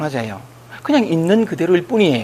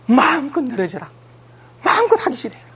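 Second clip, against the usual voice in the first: coaxing permission; 4 semitones higher than usual. Retold or imitated. Counselor voicing permission, high.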